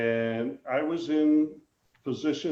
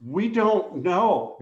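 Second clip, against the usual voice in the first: deadpan reply; 5 semitones higher, 4 dB louder, much slower than usual. Retold or imitated. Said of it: "And he goes".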